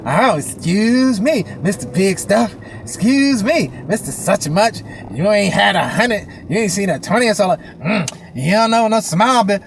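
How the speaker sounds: sarcastic mock indignation; pissed-off cashier, imitated. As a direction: act out an offended woman's sneering put-down. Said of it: "She was so pissed at me".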